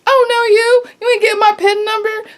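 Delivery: fed-up customer guarding her PIN, defiant; defiant sass. Retold or imitated. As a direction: shut the stranger down with attitude. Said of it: "I'm done being nice".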